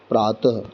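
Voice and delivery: प्रातः ending in a soft breathy h; visarga as soft h. Shown as a demonstration. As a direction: breathe a light h after प्रातः. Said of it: "ह का उच्चारण हो रहा है".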